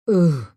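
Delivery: half-hearted acted ugh; mild groan. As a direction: groan at the heat, understated. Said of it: "Maggie groaned".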